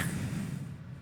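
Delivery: soft, breathy laugh; real chuckle. Real, not acted. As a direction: laugh quietly at your own story. Laughs at own revenge story.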